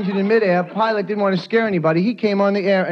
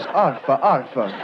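French dog bark; 5 semitones lower, slower than usual. Retold or imitated. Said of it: "barks like this".

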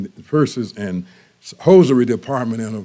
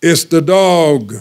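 louder, slow blurted retort; 4 semitones higher, 5 dB louder, much slower than usual. Retold or imitated. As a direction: blurt it out, fed up. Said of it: "The man blurted, blurted out".

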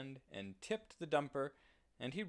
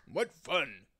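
high, much louder cry of glee; excited pig; 4 semitones higher, 8 dB louder than usual. Acted. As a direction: shout it out like a thrilled piglet. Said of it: "said the pig".

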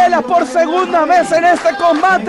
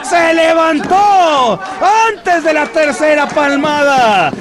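raised, shouting play-by-play; excited wrestling call. Real, not acted. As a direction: call every near-fall at the top of your voice. Near-falls called loudly.

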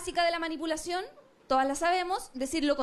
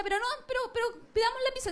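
mock reluctant giving in; 8 semitones higher, much faster than usual. Acts fake agreeing on pizza.

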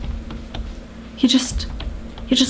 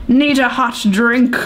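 go-to voice. Pretend. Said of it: "this is now becoming my go-to voice".

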